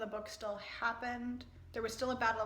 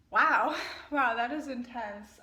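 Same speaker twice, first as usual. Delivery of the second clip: loud, stunned exclamation; amazed; 8 dB louder, slower than usual. Real, not acted. Reader reacting to the intense ending. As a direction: let the wow burst out.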